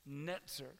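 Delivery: Netzer said slowly in Hebrew, NET-ser; Hebrew word. Shown as a demonstration. Pastor teaching the congregation a Hebrew word, Netzer carefully pronounced. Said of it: "the word for town or house".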